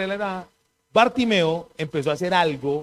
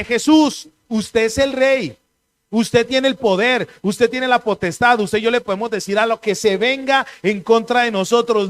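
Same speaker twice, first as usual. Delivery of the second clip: proclaiming; 2 semitones higher, 4 dB louder than usual. Retold or imitated. Blind man proclaims Jesus king.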